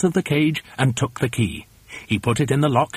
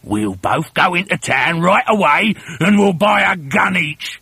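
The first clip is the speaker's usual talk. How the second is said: higher-pitched scheming shout; excited shout; 5 semitones higher, 3 dB louder than usual. Acted. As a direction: blurt the plan out without keeping your voice down. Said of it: "he shouted".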